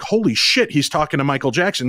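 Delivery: high-pitched awed outburst, imitated; mock amazement. Chat room reacts to the star calling in, mimicked amazement. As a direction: jump up high as a stunned fan.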